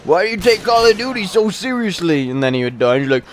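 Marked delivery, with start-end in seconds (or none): 0.0-2.3 high-pitched mocking kid voice; imitated raging kid. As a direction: mimic an indignant young gamer. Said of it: "raging and raging and raging".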